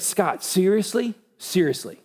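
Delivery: mildly exasperated God figure; frustrated. Acted. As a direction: act out a touch of frustration. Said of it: "He was just frustrated".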